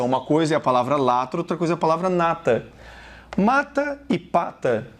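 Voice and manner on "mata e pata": "Mata e pata" said slowly and distinctly; slow minimal pair. Shown as a demonstration. Teacher presenting a minimal pair, slow and clear. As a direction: draw out "Mata e pata", each word separate. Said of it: "Muito parecidas também".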